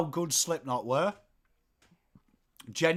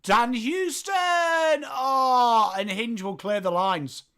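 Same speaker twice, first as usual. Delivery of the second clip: raised, drawn-out call settling down; play-by-play; 8 semitones higher, slower than usual. Acted. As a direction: exclaim the name, then carry on commentating.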